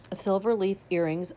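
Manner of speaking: talking through hiccups; hiccuping. Real, not acted. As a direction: hiccup breaking the words. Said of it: "Sorry, I'm hiccuping".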